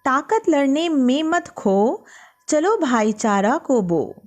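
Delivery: slow, measured verse reading; poem recitation. Acted. Teacher reading a poem aloud to students, slow recital. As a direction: recite each line slowly for the class.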